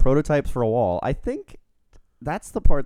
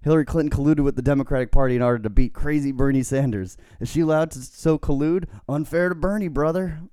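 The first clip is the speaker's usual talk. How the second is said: raised, punchy wrestler promo voice; Hulk Hogan; 6 semitones higher, 4 dB louder than usual. Acted. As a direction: climb higher on each indignant question. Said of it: "I'll try to do it in Hogan's voice".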